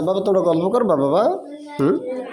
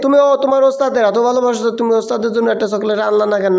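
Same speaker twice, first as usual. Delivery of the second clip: playful teasing; 4 semitones higher than usual. Real, not acted. Teasing student about chocolate.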